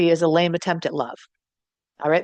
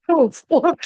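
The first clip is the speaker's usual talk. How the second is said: high, louder yappy woofs; dog barks; 9 semitones higher, 4 dB louder than usual. Retold or imitated. Bride barking again for the groom, high yaps. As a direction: yap like an eager little dog. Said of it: "And he's like".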